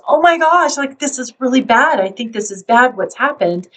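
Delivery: mock-panicked parent, starting high and fading down; freaking out. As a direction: play a parent who panics at the first sign of trouble. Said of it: "freaks out and goes".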